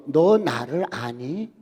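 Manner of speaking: slow, lightly voiced divine question; a hint of God asking slowly; slow, gentle voice of God; God's voice. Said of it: "주님께서".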